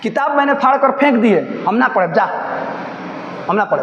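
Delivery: put-on a touch of a sharp, defiant girl talking back. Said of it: "उद्दत स्वर में बोली". (उद्दत, तेज़ स्वर में, हल्का-सा अकड़ भरा जवाब)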